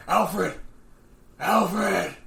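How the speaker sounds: loud Batman call; shouting for Alfred. Pretend.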